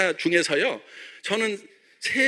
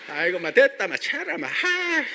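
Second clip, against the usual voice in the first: Gyeongsang dialect; 7 semitones higher than usual. Retold or imitated. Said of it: "막 이렇게".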